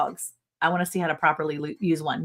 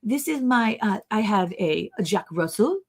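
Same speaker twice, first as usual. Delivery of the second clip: put-on French accent. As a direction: imitate a French neighbor introducing the dogs. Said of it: "Are you gonna do your French accent".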